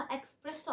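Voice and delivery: "إكسبريسو" with a k before the s, eks-presso; non-Italian mispronunciation. Retold or imitated. Teacher reporting non-Italians' error, "إكسبريسو" with an X sound. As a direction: turn "إسبريسو" into "إكسبريسو", like English express. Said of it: "ساعات بينطقوها".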